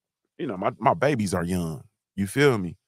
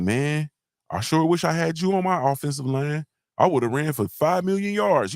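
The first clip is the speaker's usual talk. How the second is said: higher, eager stranger praising him; mock fan voice; 6 semitones higher than usual. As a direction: gush like an overexcited fan. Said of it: "say something like".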